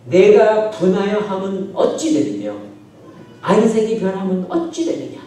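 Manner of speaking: slow, insistent challenge; confrontational questioning. Acted. God challenging Cain over his anger, confrontational questioning. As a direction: demand an answer, pressing each phrase. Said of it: "막 따지듯이".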